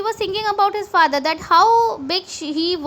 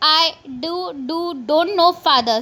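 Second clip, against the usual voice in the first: stuttering; faster than usual. Acted. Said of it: "she just stam-, started st".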